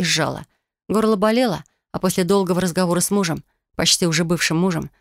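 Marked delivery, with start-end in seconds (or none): none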